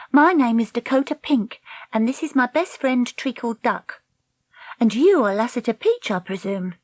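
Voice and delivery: put-on high-pitched, self-possessed girl; Dakota, confident young heroine. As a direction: introduce yourself formally in a high voice. Voices Dakota introducing herself.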